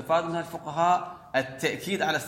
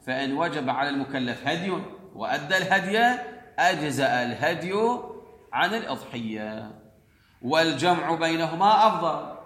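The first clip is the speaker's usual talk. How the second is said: formal read-out, building louder phrase by phrase; reading aloud; 2 semitones higher, 4 dB louder than usual. Acted. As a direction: read the ruling out in measured phrases. Reads the law text aloud.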